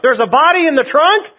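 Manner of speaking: a cop stunned by the driver's confession; alarmed disbelief. Acted. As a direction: gasp it out in disbelief. Officer hears of a body.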